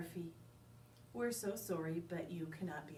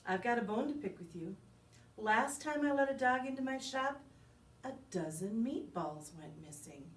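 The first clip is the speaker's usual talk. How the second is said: gruff butcher lady; 2 semitones higher, 5 dB louder than usual. Acted.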